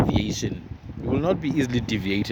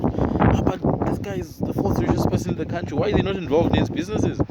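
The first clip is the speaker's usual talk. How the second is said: higher, puzzled questioning of past self; retold incredulous question, pitched up; 5 semitones higher than usual. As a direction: voice your old bafflement, pitched up. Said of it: "I couldn't understand it at that time".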